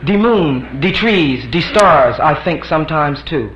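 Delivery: lightly voiced dreamy wife; a touch of wistful musing; wife from the bedroom. Wife calling from the bedroom, lightly dreamy. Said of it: "From the bedroom".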